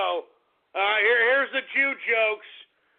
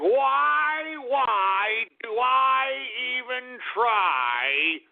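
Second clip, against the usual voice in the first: mock despair; 3 semitones higher, much slower than usual.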